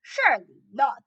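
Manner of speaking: loud shouted protest; disbelieving shout. A narrator's reading. Other witches answering the sniffer, shouting. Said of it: "the others shouted".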